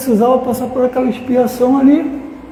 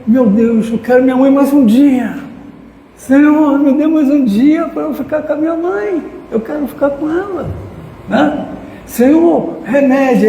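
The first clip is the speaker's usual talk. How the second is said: raised, imploring retold plea to God; desperate pleading prayer; 5 semitones higher than usual. Son praying at dying mother's bedside, pleading high and urgent. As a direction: beg the Lord, voice lifted and pressing.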